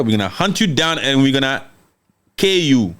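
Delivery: measured threat, halting before "kill you"; deliberate quoted warning with a held-back ending; retold threat. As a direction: pause for weight before landing "kill you". Retold threat, first deliberate take.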